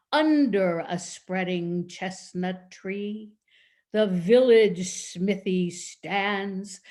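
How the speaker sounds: slow, stately imitation of dad reciting; grand, drawn-out poetry recitation; booming poem recital. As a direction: declaim it slowly, loud on the stressed words. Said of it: "in a deep, passionate, booming voice".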